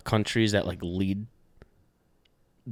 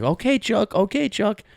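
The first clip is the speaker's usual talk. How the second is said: sarcastic dismissal; 12 semitones higher, 4 dB louder, slower than usual. Retold or imitated. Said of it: "He's like".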